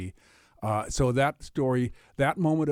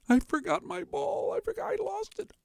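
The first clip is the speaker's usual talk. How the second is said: put-on little girl. Girl tells the frog she lost her ball, high and whiny. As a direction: pitch way up like a small upset girl.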